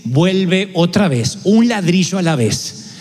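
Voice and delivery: slow, solemn voice of God. Retold or imitated. Preacher voicing God to the congregation, slow and solemn. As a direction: speak as God, slowly and gravely.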